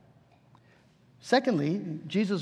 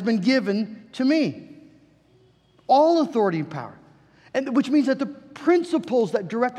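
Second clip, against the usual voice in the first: emphatic, raised proclamation with punched key words; forceful preaching; 3 semitones higher, 4 dB louder than usual. Real, not acted. Preacher proclaims the King's reign to the church, forceful preaching. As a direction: drive each phrase home from the pulpit.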